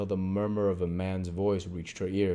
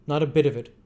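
Chitling voice; 7 semitones higher, 7 dB louder, faster than usual. A narrator's reading.

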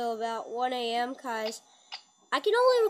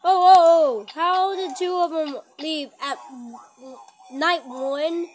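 loud alarmed outburst; startled shout; 3 semitones higher, 11 dB louder, slower than usual. Real, not acted. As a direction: yelp in sudden alarm. Startled by animatronics leaving.

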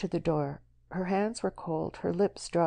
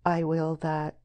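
warm maternal. Acted. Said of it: "with her warm maternal smile".

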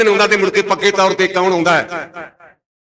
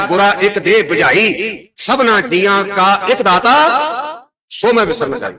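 slow, stretched verse delivery; scripture recitation. Acted. Preacher reminding the congregation of the one giver, slow recitation. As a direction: draw out the sacred lines phrase by phrase.

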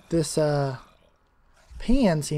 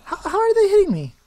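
raging gamer; 8 semitones lower than usual. Real, not acted. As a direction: rage at the unfair hits. Gamer getting hit unexpectedly.

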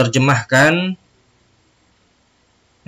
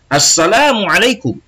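Ali's greeting; 6 semitones higher than usual. Acted. Teacher voices Ali in dialogue.

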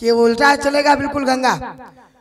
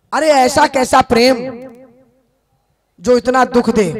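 calling the gopis louder; Uddhav calling out; 4 dB louder than usual. Retold or imitated. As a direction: plead with them, raising the voice. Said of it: "और उद्धव ने कहा कि".

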